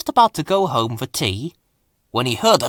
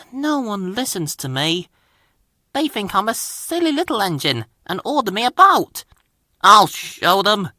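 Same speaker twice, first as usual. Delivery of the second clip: higher-pitched little engine feeling put upon; sighing complaint; 8 semitones higher than usual. A narrator's reading. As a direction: grumble after a sigh, pitched up. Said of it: "Percy sighed".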